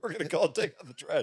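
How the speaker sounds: repeating the line through laughter; laughing. Real, not acted. Son repeating his mother's joke while laughing.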